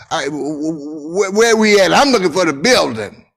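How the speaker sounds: put-on a lost kid calling out in alarm; panicked calling out.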